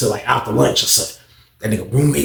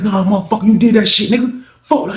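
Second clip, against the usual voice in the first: retold angry accusation; 6 semitones higher than usual. Acted quarrel, accusing snitch.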